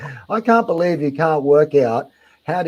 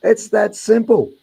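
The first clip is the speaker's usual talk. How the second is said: condescending explanation; 5 semitones higher, 4 dB louder than usual. Real, not acted. Aussie explaining a squeeze packet, condescending.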